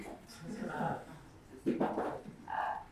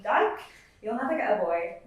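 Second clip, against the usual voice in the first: higher, louder mock schoolyard jeer; boy's taunt; 3 semitones higher, 8 dB louder than usual. Narrator imitating the boy who pinned her to a wall, mock jeer. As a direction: spit the slur like the bully did, mildly. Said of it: "told me".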